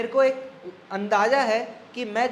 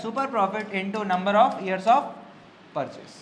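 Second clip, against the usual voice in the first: slow, word by word for note taking; slow dictation; much slower than usual. Shown as a demonstration. Teacher dictating the goodwill formula, slow and spaced. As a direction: spell the formula out slowly. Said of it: "goodwill is equals to क्या है?".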